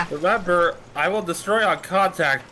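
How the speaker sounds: put-on laughing, light Russian accent; half-laughing menacing Russian threat. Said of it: "but in a Russian accent".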